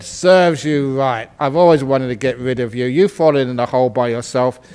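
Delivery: low, a touch of menace; lightly voiced cruel farmer; gloating farmer. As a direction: farmer telling the donkey he will bury him alive. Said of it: "the farmer said".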